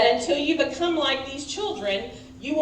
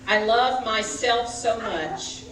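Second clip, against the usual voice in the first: slow spoken line. Shown as a demonstration. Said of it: "we're gonna just talk through it first".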